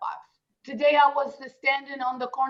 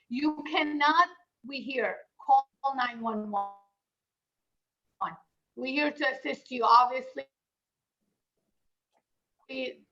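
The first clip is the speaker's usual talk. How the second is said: glitchy robotic call. Real, not acted. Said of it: "Your audio is breaking up".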